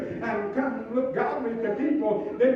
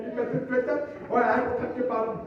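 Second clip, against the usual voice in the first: mock British accent; faster than usual. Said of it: "in this British accent of hers".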